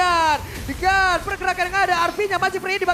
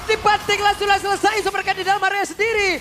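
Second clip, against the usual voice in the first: fighting game announcer; 3 semitones higher than usual. Real, not acted. Hyped play-by-play on a kill.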